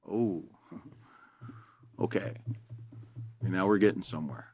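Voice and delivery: soft, low, breathy laugh through the words; laughing disbelief. Retold or imitated. Instructor reacting to the wife's news with a quiet laugh.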